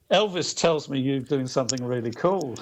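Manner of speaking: lightly imitated Liverpool accent; a hint of Liverpool in the voice; a singer's Liverpool accent. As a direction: quote it in mild Liverpudlian. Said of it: "in his Liverpool accent".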